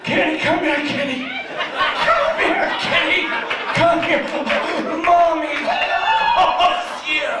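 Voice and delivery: high, coaxing mom voice; mom calling cat. Retold or imitated.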